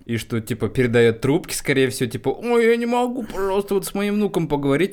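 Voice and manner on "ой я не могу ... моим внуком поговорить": put-on high, pleading old granny; grandma voice. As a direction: beg like a frail grandmother. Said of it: "какую-то бабушку".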